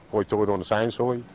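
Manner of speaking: "Hoy toy on the sand side" with oy for every long i; hoy toy brogue. Shown as a demonstration. Islander demonstrates the high tide phrase in brogue. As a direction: round the vowels into "hoy toy". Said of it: "It's, it's high".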